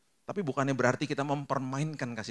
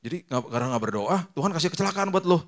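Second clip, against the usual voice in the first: raised, louder mock accusation; mocking accuser; 6 semitones higher, 5 dB louder than usual. People blaming a man for his accident, mock scolding. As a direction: scoff like a judgy bystander. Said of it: "orang langsung mikir gini".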